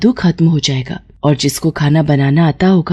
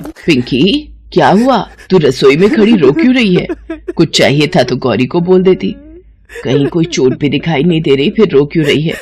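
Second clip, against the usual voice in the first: concerned mother-in-law. Acted. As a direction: question her like a puzzled elder.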